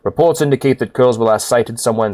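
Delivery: low, formal commander voice; stern quest giver. Acted. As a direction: read it like a grave officer. Reads quest giver's lines.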